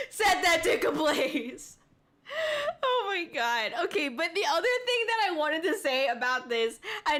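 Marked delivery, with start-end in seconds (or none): 0.1-1.8 mock dub voice-actor tone. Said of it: "this is what, like, the English voice actors sound like".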